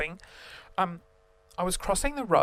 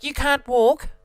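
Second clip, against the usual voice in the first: angry shout; 7 semitones higher, 7 dB louder, slower than usual. Retold or imitated. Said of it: "she was like".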